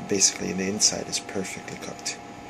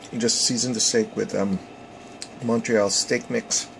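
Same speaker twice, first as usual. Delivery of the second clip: mouth full. Real, not acted. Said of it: "I should stop talking with my mouth full".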